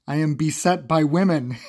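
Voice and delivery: mock-dramatic, loud, breaking into laughter; laughing through the line. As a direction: read it loud while cracking up. Reading Magneto's line, cracking up.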